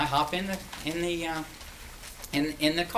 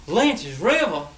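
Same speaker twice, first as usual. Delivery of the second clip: louder and higher, laughing in disbelief; he can't believe a stranger knows his river; amazed delighted drawl; 6 semitones higher, 7 dB louder, slower than usual. Retold or imitated. Carolina man to hitchhiker, thrilled and laughing.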